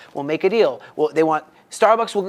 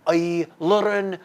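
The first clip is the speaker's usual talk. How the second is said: put-on much higher and louder, boasting in a broken English Arab accent; Arab driver's accent; 6 semitones higher, 4 dB louder, slower than usual. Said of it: "I'm trying to do his accent".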